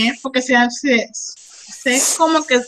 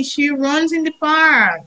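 slow model; slower than usual. Shown as a demonstration.

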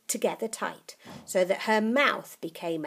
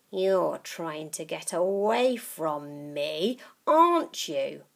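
put-on sly old witch; 4 dB louder than usual. Grandma accusing.

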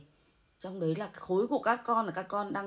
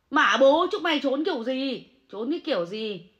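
angry curse; 2 semitones higher than usual. Real, not acted. Monk ranting at critics.

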